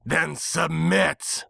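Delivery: slow, high, drawn-out villain hiss; hissed demand. Acted. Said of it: "the nightmare hissed".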